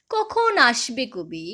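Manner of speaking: slow, drawn-out call in full recital voice; expectant recited question. Acted. Repeated waiting cry in poem. (টেনে টেনে ব্যাকুল আহ্বান)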